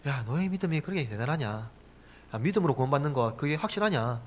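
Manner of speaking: hushed, quick mocking aside; understated sneering challenge; mock scoffing. Voicing mockers of believers' faith.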